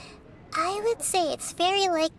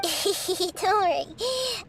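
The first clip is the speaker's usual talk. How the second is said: a light laugh, then a slow reassurance; 3 semitones higher, much slower than usual. Acted. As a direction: laugh it off kindly. Gentle laugh reassuring worried companion.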